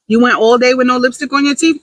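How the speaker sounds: playful impressed question; praising herself. Acted. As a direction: hype yourself up over a tiny win. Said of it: "gonna start praising myself for the little things".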